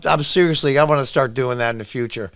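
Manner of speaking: normal talking voice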